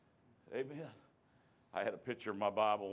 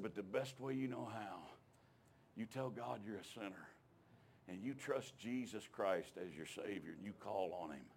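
gentle urging; 5 dB quieter than usual. Retold or imitated. Preacher kneeling with Eddie, guiding him softly toward salvation. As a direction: coax him quietly toward prayer. Kneeling, leading friend to pray.

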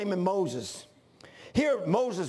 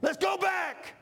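mock rallying cry; 3 semitones higher than usual. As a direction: whip up a crowd, rising. Mocking backsliders, building to a shout.

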